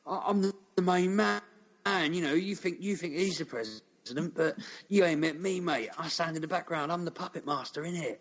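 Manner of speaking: a cocky Cockney geezer bragging, innit; mock Cockney boast. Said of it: "he doesn't have a Cockney accent".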